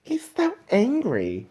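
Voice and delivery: soft breathy mock whisper; whispered aside. Podcaster whispering about his own anger, mock hushed.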